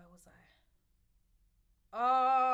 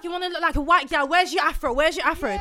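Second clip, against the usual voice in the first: loud, high-pitched accusing demand; retold shouting; 5 semitones higher, 11 dB louder than usual. Stranger attacks woman's straight weave, retold shouted taunt. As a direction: berate them in an imitated yell. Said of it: "you're now shouting at me".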